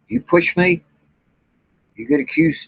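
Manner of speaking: indignant outburst, high and heated; heated defiance. Real, not acted. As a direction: pitch jumps high as he fires back. Angry rant at accusers.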